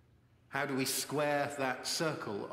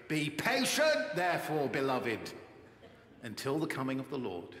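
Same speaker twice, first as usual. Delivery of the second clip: coach shouting. Retold or imitated. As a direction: bark it like the coach, then settle. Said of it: "I had Coach Roman's voice in my head, shouting".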